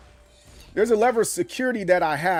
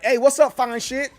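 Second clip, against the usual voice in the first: trolling flirty greeting; 5 semitones higher than usual. Retold or imitated. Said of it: "he'd be like".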